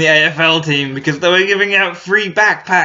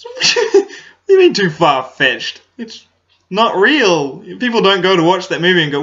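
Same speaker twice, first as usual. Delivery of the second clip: higher, louder indignant dad impression; mock dad rant; 6 semitones higher, 3 dB louder than usual. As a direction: play dad lecturing that it isn't real. Dad voiced, arguing the film.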